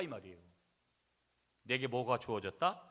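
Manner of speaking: usual speaking voice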